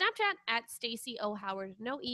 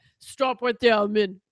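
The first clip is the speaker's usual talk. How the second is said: put-on Philadelphia boxer voice, louder; 14 dB louder than usual. Reading the Flash's lines in a cold read: Rocky impression. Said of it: "That was my Rocky".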